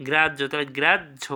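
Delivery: second "গ্রাহ্য" as গ্রাজ্-ঝো; conjunct pronunciation. Shown as a demonstration. Teacher explaining the conjunct, "গ্রাহ্য" sounded with j and jh. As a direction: land on the jh in "গ্রাহ্য". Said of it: "ঝ থাকে".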